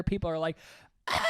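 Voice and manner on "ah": imitated crowd scream. Imitates people's screaming reaction.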